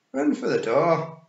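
high, loud, drawn-out Scots order; urgent order. Acted. Rob ordering everyone to escape, urgent shout. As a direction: urge them out in loud Scots.

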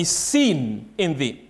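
"seen" drawn out slowly before "in thee"; deliberate, stretched emphasis on "seen"; stress on seen. Real, not acted. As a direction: lean long and firmly on "seen". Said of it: "trying to emphasize some words".

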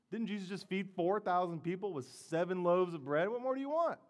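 rising to a high, exasperated question; incredulous. Acted. Preacher reacts to Pharisees wanting a sign, incredulous.

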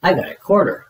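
put-on high, bright and pleased, a child showing off her treat; delighted little girl proudly announcing her coin; happy squeal. A narrator's reading. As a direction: squeal it out with glee. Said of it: "says Violet happily".

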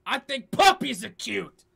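loud demo. Shown as a demonstration. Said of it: "Just how you say something".

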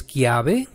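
"kiave" with CH said as hard k; hard K sound. Shown as a demonstration. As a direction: say "kiave" opening on a k. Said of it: "la vamos a pronunciar como la K".

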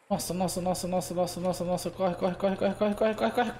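rushed, rising run-run urging; being chased. Real, not acted. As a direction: hurry it, chased and laughing. Fleeing in game, urging himself.

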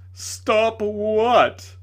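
high, loud, scornful demand; defiant retort. A narrator's reading. Tragedian retorting to the lady, loud scorn. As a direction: throw it back at her.

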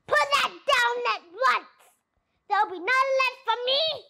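high, loud, fast scolding; indignant. A narrator's reading. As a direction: snap at them to stop drinking. Rat shrieking at the thieves.

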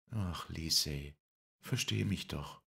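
slow, pleading voice. Acted. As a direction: beg her gently and slowly. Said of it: "ich bat nur".

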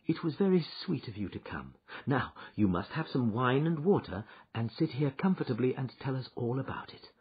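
soft, gentle reassurance; comforting. Acted. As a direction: soothe a frightened friend. Wife comforting distressed friend.

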